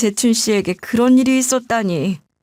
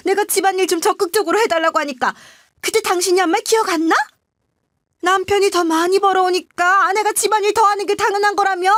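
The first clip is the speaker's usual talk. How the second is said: scolding climbing much higher and faster; wife tearing into her husband in front of friends; building tirade, rising in pitch and speed; harsh scolding; 6 semitones higher than usual. A narrator's reading. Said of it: "남편을 호되게 혼내기 시작했죠".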